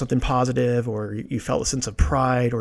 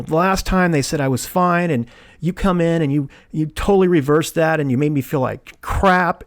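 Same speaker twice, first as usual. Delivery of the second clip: mildly angry retold complaint; politely angry; 3 semitones higher than usual. Patient going off politely at the hygienist, mildly angry. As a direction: keep it polite but push the grievance. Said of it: "I went off in a polite way, but I was angry".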